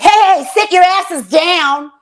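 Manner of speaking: hammed-up stern order, slowing on the words; scolding comedian friend. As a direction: boss the room into staying for the credits. Friend's brother scolds the audience.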